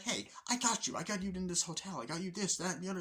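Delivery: high-pitched pleading retort; defensive protest. Retold or imitated. Roommate reminds him of the hotel, high defensive protest.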